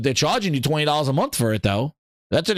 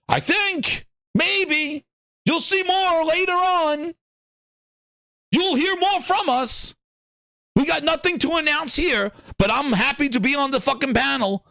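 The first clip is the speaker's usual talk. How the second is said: Herman Holtz impression; 9 semitones higher than usual.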